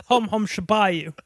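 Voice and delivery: mock Cockney chant; Cockney accent. Shown as a demonstration. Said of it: "I'm trying to do his Cockney accent".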